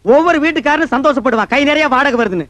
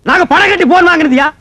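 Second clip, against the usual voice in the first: indignant, raised voice; angry retort; 3 semitones higher, 4 dB louder than usual. Acted. Man defending his phone connection, angry retort. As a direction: fire back at the insult.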